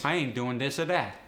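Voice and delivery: AAVE, "this" and "that" with D; AAVE sentence. Shown as a demonstration. Teacher demoing AAVE sentence. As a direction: punchier AAVE version. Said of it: "voice T H sometimes becomes a D".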